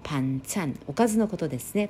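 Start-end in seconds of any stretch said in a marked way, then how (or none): 0.0-0.8 パンチャン, Korean pronunciation, no Japanese vowels; Korean banchan. Shown as a demonstration.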